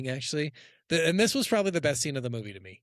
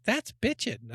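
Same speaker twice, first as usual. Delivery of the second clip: mock eighties slang; 7 semitones higher than usual. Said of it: "they kept saying bitchin' for things".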